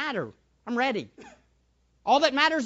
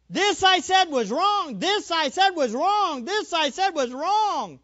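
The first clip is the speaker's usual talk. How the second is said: slow humble confession; 7 semitones higher, slower than usual. Retold or imitated. Humble confession repeated slowly.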